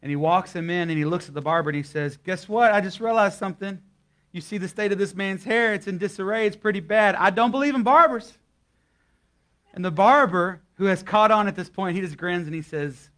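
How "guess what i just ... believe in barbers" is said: mock pastor's gotcha. Pastor's punchline quoted to barber.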